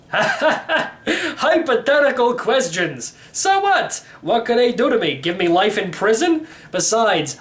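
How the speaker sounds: put-on a mischievous old man laughing off the danger; gleeful old man. Old uncle to nephew, laughing and high-voiced.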